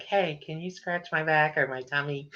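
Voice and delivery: voicing the cat asking for a tummy rub. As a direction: coax like a cat wanting scratches. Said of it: "she'll, like, lay on the back and be like".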